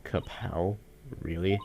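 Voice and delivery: KAPOW as an unimpressed question; doubting echo. Acted. Host questioning the failed joke, doubtful KAPOW.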